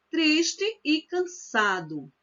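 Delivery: Triste e cansado read slowly, the e of triste melting into e; careful reading aloud; elided reading. Shown as a demonstration. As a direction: glide triste e into one syllable, tris-tecansado. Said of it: "Que se lê".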